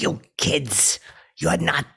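slow, loud villain threat; movie bad guy. Villain warning the kids, drawn-out menacing shout. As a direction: bellow it, stretching the last word. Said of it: "I would be so good to do that".

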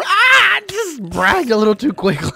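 startled scream breaking into a loud, high complaint; real startled scream. Real, not acted. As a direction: yelp in real fright. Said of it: "sorry about that scream".

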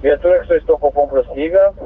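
crackly two-way radio transmission; squelchy handheld radio; police radio. Real, not acted. Dispatcher over radio.

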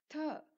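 த with a puff of breath; aspirated dental t. Shown as a demonstration. Teacher showing right pronunciation, த breathy as tha. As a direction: let air out on த. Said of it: "right pronunciation".

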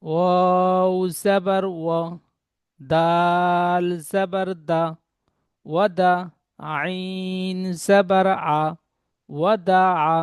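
each syllable stretched out, then joined; teacher spelling ওয়াদা slowly; slow chanted spelling; slow spelling drill. Shown as a demonstration. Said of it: "পরের পড়াটি".

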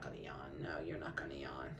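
hushed whisper to the puppy. Real, not acted. Breeder whispering to a yawning puppy on the scale, whisper. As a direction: whisper it so he stays calm.

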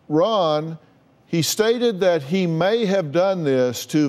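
measured document read-out; reading aloud. Acted. Host reads the affidavit of probable cause to Ron, reading aloud. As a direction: read it out formally, point by point.

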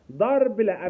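a firm loud no, not a gesture. Shown as a demonstration. A therapist repeats the loud firm no to the child. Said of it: "بصوت عالي مش باشارة".

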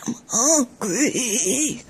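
imitating a child's hungry whine; mock whining. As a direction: mimic a whiny kid, lightly. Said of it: "Sound like a little old man".

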